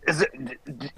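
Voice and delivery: imitating his own freak-out to investigators; panicked. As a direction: blurt it out high in a rising panic. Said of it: "I was like".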